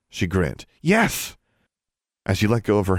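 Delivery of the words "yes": high-pitched, gleeful yes; delighted. A narrator's reading. Sister accepts dueling practice, delighted.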